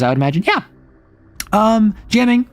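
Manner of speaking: ordinary talk, nothing marked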